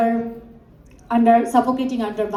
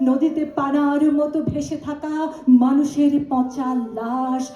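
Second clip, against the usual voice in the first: poem recitation; 2 semitones higher, much faster than usual. Acted. Reciter honoring language martyrs with a protest poem, solemn poem recitation. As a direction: recite with rising intensity, sinking back at each refrain.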